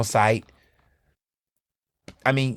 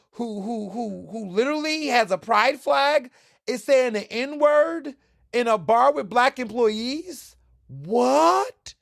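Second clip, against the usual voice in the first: higher, slow, hammed-up disbelief; mock shocked East Coaster; 8 semitones higher, slower than usual. East Coast friend learns the gay bar owner says it, mock shock. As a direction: play a scandalized East Coaster who can't believe it. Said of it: "and go".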